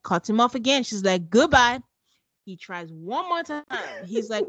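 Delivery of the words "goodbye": a sharp, louder goodbye; curt goodbye. Retold or imitated. Recapper mimics Michaela dismissing Zach, curt and loud. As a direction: snap it off to end the talk. Mimicking her cutting him off.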